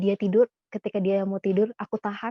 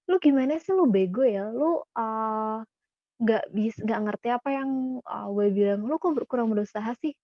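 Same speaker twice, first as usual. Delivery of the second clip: mock scolding. Scolding someone who tried hard and fell short, mock cross. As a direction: act out a half-hearted telling-off. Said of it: "kita marah-marahin dia".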